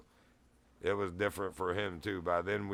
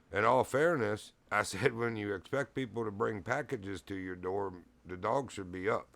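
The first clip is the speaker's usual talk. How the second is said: even, unrude pushback; matter-of-fact. Retold or imitated. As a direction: state it plainly, without any edge. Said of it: "I just said it matter-of-factly".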